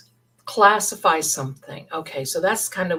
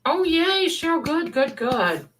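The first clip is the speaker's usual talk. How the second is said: much higher, delighted greeting; excited; 9 semitones higher than usual. Real, not acted. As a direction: greet her with real joy. Greeting a viewer joyfully.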